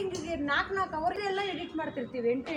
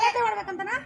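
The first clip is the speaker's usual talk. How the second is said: raised, higher-pitched questioning demo; louder line demo; 4 semitones higher, 3 dB louder than usual. Shown as a demonstration. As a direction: push the question out with more force. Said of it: "ಹಾ, ಜೋರು, ಜೋರು".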